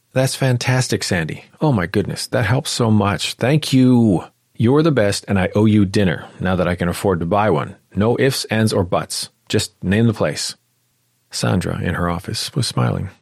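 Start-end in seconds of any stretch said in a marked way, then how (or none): 0.1-10.6 high, loud gushing thanks; overjoyed. Acted. Clara thanking Sandra on the phone, overjoyed. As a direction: bubble over with gratitude.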